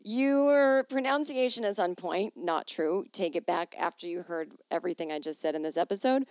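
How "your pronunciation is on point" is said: YOUR stretched long and loud, higher pitch; slow, raised read leaning on "Your"; drawn-out compliment. Retold or imitated. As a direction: hold "Your" high, then slowly deliver the rest. Reads compliment about her French.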